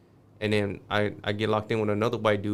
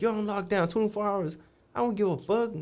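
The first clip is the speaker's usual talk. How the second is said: high mocking guard voice laying down punishment; imitating the guard; 11 semitones higher than usual. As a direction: voice the guard who couldn't care less.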